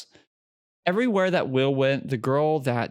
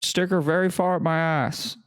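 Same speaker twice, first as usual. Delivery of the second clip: Biden impression. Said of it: "put the Joe Biden voice".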